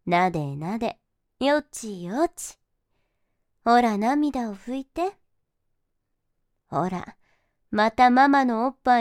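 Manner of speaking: put-on cooing baby talk. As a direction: lull him like an infant.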